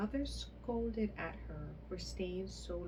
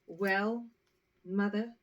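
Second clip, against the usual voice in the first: pert; 8 dB louder, slower than usual. A narrator's reading. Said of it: "answered the pert child".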